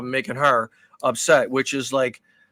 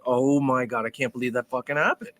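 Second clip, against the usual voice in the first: low, quieter retold disbelief; head-in-hands despair; 4 semitones lower, 5 dB quieter than usual. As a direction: groan it to yourself, mildly despairing. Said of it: "got my head in my hands".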